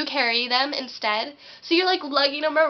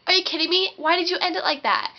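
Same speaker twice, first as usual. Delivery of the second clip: incredulous complaint; 5 semitones higher than usual. Acted. Acted complaint to story partner.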